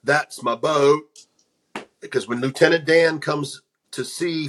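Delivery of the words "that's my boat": slow, drawn-out Southern line, lightly voiced; a gentle nod to Forrest's slow Alabama speech; quoting Forrest proudly in a light Southern accent; Forrest Gump voice. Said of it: "impersonation of Forrest Gump".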